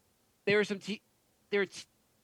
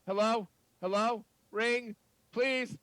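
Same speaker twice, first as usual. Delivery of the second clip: desperate pleading; 5 semitones higher, much slower than usual. Acted. Caller begs before being hung up.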